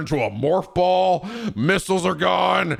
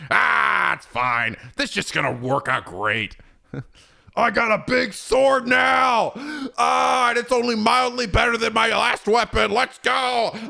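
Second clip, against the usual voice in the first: higher hammed-up boastful shouting; mock Kratos bravado; 5 semitones higher than usual. Kratos bragging about his new sword, hammed-up shouting. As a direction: boast like a dumb overconfident hero.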